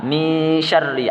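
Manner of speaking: "Min syarri" with the n blurred into a held hum; "Min syarri" gliding nasally into sy; ikhfa. Shown as a demonstration. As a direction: hide the n of "Min" before "syarri". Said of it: "ada samarnya".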